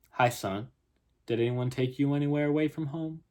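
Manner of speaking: lightly voiced Southern policeman; Southern accent. Policeman questioning the lost boy, light Southern accent. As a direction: question the child with a hint of Southern. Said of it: "if I have a terrible Southern accent".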